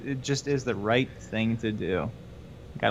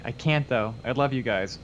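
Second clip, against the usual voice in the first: ordinary talk, nothing marked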